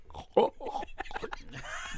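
voiceless gagging sound; hammed-up throaty choke; mock choking noise. Shown as a demonstration. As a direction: imitate choking on a mouthful. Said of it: "That was the sound of you choking".

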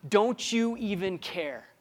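high, loud, slow wail of fear; terrified disciples. Retold or imitated. Disciples in the storm cry to Jesus, slow frightened wail. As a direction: beg as the boat sinks. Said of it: "this is what they say".

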